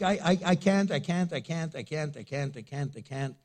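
fading, stammering refusals; stammering fear. Retold or imitated. Gideon refusing God's call, fading into frightened stammering. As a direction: trail off in nervous repetition. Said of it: "Gideon's like".

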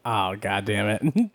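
pained groan. Retold or imitated. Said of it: "and I'd be like".

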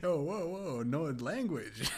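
high, drawn-out teasing reproach; mock scolding. Telling off an angry gamer for swearing, mock shocked. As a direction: feign shock, on the edge of laughter.

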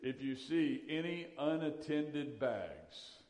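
slow, measured mock public-address announcement; a hint of the terminal announcer, each word spaced out; airport announcement voice. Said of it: "hear that little magic voice come on".

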